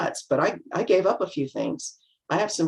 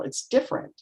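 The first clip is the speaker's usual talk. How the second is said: whispered aside; 7 semitones higher, 4 dB quieter than usual. Real, not acted. Quiet aside.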